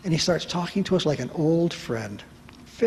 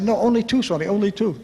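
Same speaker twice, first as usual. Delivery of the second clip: high, louder urgent correction; frantic insistence; 5 semitones higher, 3 dB louder than usual. Retold or imitated. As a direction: jump in desperately to correct her.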